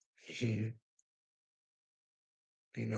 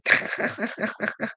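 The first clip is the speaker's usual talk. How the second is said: long high, breathy cackle; real rapid-fire high laugh; 11 semitones higher than usual. Real, not acted. Laughing after saying they have you committed, high cackle.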